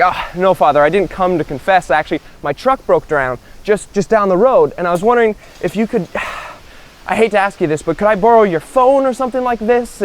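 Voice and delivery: sheepish plea with a sigh, pitch climbing; hesitant request. Acted. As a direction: ask reluctantly, as if embarrassed to bother him. Stranded guy sheepishly asks monk for help.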